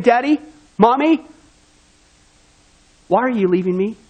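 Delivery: a hint of an abandoned child crying out; pleading child. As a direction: call after them as they walk away. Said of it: "your son is still saying".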